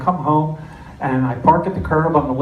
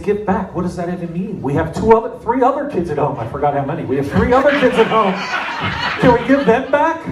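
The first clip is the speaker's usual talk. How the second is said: incredulous; 4 semitones higher than usual. Retold or imitated. Retold argument with wife.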